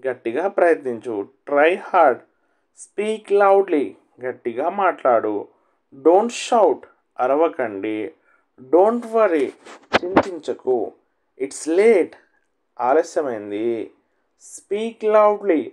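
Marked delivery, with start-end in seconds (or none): 2.8-3.8 drawn out slowly, word by word; a teacher modelling the phrase slowly for learners; slow model reading. Shown as a demonstration. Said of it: "teacher models phrase slowly". 14.5-15.6 drawn out slowly, word by word; a teacher modelling the phrase slowly for learners; slow model reading. Shown as a demonstration. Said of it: "teacher models phrase slowly".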